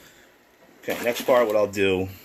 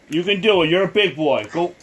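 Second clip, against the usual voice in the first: calling from far away; 7 semitones higher, 5 dB louder than usual. Real, not acted. Coaxing child to go.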